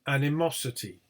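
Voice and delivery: ANIMOSITY with lighter AN, main MOS; secondary stress. Shown as a demonstration. Teacher showing secondary stress at beginning, AN then MOS. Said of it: "secondary word stress at the beginning".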